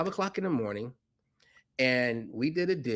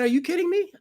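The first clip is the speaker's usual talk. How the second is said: quoting Rajiv; 4 dB louder, faster than usual. Retold or imitated. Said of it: "He said".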